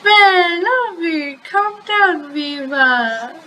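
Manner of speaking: high, cartoonish plea to calm down; teasing character voice. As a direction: put on a high voice and tease a ranting friend. Character soothes ranting Romano, voiced high.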